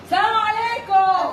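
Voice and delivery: drawn-out cheerful salaam; called greeting. Real, not acted. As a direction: call out a greeting to the whole yard. Greeting the animals on arrival.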